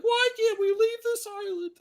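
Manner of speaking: very high mock female voice; hammed-up high girly complaint; ladies whining. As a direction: squeak it like a stranded starlet. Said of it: "the ladies are like".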